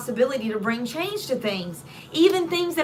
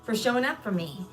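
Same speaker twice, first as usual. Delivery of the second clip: grateful thanks; 6 dB quieter than usual. Retold or imitated. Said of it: "start thanking you more".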